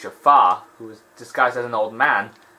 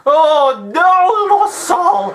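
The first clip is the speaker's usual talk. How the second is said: much higher, much louder alarmed yell; panicked shout; 7 dB louder, slower than usual. Real, not acted. Gamer spotting a Lost Soul, in a real panicked shout. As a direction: yelp in real panic at a monster.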